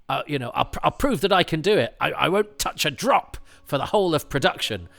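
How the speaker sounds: lightly hammed-up bravado; mock drinker's vow. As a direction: act out a drinker vowing to prove it.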